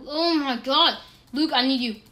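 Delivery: loud urgent plea; desperate call. Real, not acted. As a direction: call your friend for help.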